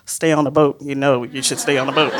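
a hint of a cautious mother; mom's voice in her head, urging caution; imitating mom. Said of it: "my mom's voice is like".

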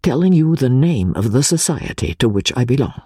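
lightly voiced Italian exile, confiding; a friend sharing a deadly secret, held close; Pesca's voice. Exile confiding his membership to English friend, lightly voiced.

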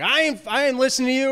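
high, fast imitation of refusing orders; mock defiance. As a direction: act out a hurried, defiant refusal.

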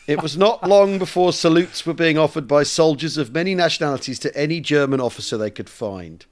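measured, deliberate storytelling read; letter read aloud. Acted. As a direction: read an old letter to an audience.

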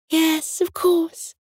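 high-pitched songbird assent; agreeable nightingale. A narrator's reading. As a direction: agree readily in a high little voice.

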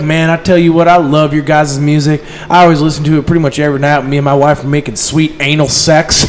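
put-on southern accent. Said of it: "the southern accent".

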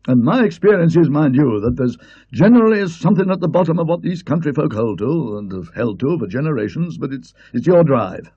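bluff, insistent countryman's wisdom; Colonel. Acted. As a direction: Colonel lecturing Parkins on golf course. Colonel voiced by the narrator.

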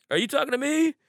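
high, rising puzzled question; can't believe it's aimed at you; incredulous question. Retold or imitated. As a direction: act out baffled disbelief, pitch climbing. Teller acts his puzzled reply.

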